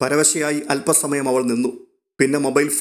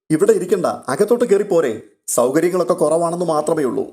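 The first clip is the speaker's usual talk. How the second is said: lightly voiced kindly elder, higher; hint of a welcoming old man; welcoming uncle; 4 semitones higher than usual. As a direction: invite her in warmly, a touch raised. Narrator voices old uncle Authakuttychayan.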